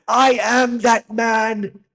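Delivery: high, loud, slow mock German accent; hammed-up German-accented impression, drawn out; Werner Herzog. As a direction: intone it grandly in a bad German accent. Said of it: "I'll try and do Werner Herzog".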